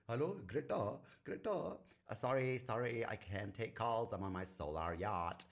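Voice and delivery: high, loud put-on phone voice; exaggerated mock activist, drawn out toward the end; Greta Thunberg. Activist declining calls from her solar yacht, hammed-up impression. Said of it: "she does sound like that in my head".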